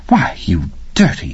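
half-whispered to herself; musing, almost under her breath; teacher whispering at the boy; reflective whisper. Acted. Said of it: "she said almost reflectively".

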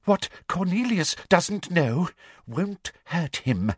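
slow, high sly voice; Umbridge, slow and sly. Acted. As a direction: dismiss it with relish. Umbridge dismissive while aiming wand.

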